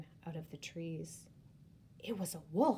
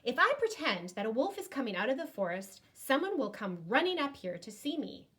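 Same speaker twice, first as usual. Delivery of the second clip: to himself; 5 semitones higher, 4 dB louder, faster than usual. Acted. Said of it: "he said to himself".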